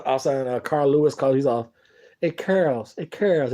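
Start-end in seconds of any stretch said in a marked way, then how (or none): 2.2-3.5 a hint of a weak, wimpy little voice; lightly mock a feeble caller. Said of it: "is his little wimpy ass voice".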